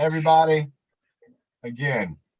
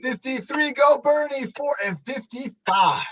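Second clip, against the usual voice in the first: doing jumping jacks; 6 semitones higher than usual. Real, not acted. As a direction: call the count while jumping. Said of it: "Ben doing jumping jacks".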